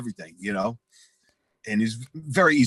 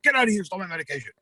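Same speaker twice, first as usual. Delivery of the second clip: acted-out outraged screech; imitated yelling; 7 semitones higher, much faster than usual. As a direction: imitate a hothead the neighbors can hear. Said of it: "neighbors don't need to fucking hear".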